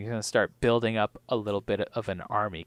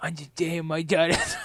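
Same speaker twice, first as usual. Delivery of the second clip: put-on movie-character voice, much higher and quieter; 7 semitones higher than usual. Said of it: "I pronounce the words wrong".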